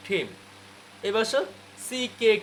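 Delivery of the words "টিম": টিম with a breathy puff on T, "thim"; aspirated T. Shown as a demonstration. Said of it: "টিমকে কি বলতে হবে?". (টিম, ঠ-এর মতো ঠিম)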